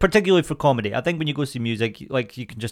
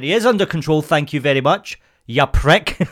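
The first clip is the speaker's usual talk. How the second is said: higher and louder, sarcastically polite then snapping; mock polite retort; 4 semitones higher, 4 dB louder than usual. Owner retorting to rude cyclist, loud sarcastic politeness. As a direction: fake courtesy that ends on an insult. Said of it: "I went so polite".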